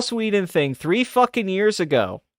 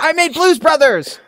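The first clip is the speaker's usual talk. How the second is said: much higher, louder shrieked boast; John Landis shriek; 11 semitones higher, 4 dB louder than usual. Retold or imitated. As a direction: screech the film title like a crazed director. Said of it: "he's like".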